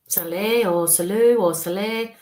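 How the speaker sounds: Saleh said slowly, syllable by syllable, trying out Salou in between; slow, tentative pronunciation of Saleh; careful tries at a word. Shown as a demonstration. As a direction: sound out Saleh, Salou, Saleh like testing a foreign word. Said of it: "how I'm gonna pronounce it".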